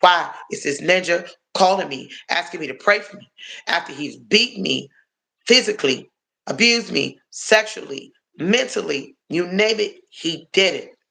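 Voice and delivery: exasperated. Retold or imitated. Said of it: "I said".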